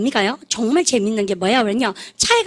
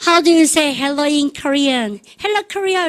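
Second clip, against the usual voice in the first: sing-out hello in a raised star voice; pitched-up hail to the arena; a pop singer; 2 semitones higher, much slower than usual. Retold or imitated. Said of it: "그때 한 가수가".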